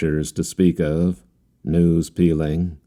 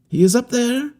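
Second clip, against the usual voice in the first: gloomy. A narrator's reading. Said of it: "becoming gloomy all of a sudden".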